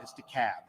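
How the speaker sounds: DeKalb settled back to "duh-KAB", no L; local pronunciation. Shown as a demonstration. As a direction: correct them with DeKalb as "de-CAB".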